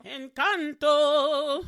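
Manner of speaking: slow, loud, stretched-out title call; loud, slow dramatic reveal of the title; drawn-out announcement. Pretend. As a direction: announce it like a show host.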